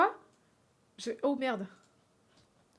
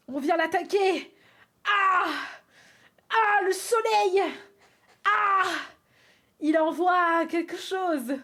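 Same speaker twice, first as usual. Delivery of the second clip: dramatic cartoon narration; 6 semitones higher, 6 dB louder, slower than usual. Narrating her drawing dramatically.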